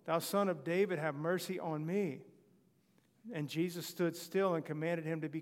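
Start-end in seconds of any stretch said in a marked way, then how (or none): 0.0-2.2 a louder mock plea; crying out more. Blind man pleading over the crowd, louder. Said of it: "he cried the more a great deal".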